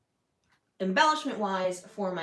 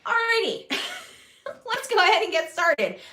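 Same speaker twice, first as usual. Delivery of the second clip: embarrassed laugh; 10 semitones higher, 7 dB louder than usual. Real, not acted. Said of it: "I did not mean to say that".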